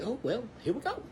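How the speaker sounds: high, resigned "here we go"; mock-weary, bracing for trouble; wry resignation. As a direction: sigh it off with a wry shrug. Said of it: "And so I'm like".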